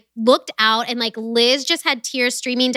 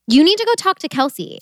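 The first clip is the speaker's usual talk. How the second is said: insistent urging; 5 semitones higher than usual. Retold or imitated. Friend urging her toward Kelsey, insistent. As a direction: push it higher, as imitated advice.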